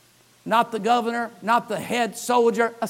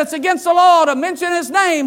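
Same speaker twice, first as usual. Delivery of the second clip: stern warning; 8 semitones higher, 7 dB louder than usual. Retold or imitated. Authorities threaten Peter.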